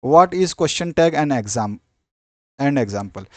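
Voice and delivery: very slow, spaced heading read; teacher dictating a heading slowly; slow dictation. Shown as a demonstration. Reads question out slowly.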